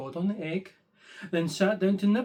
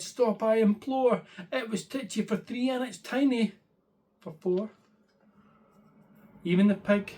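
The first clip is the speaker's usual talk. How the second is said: put-on fretting old lady; 3 semitones higher than usual. Old lady wailing that her house is too crowded. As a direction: plead in a fluster.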